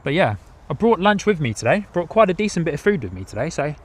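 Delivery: talking through a mouthful of apple; munching between words; chewing while talking. Real, not acted. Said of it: "excuse the munching for a few seconds".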